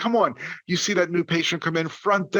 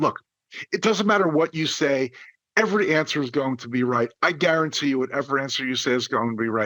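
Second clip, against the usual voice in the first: ordinary talk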